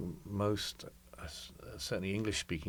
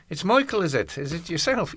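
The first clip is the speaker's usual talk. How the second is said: a hammed-up Donegal Irish lilt, higher and louder; bad Irish accent; 9 semitones higher, 9 dB louder than usual. Irish missionary priest greeting the visitor in a bad Irish accent. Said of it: "sorry, that was a bad accent".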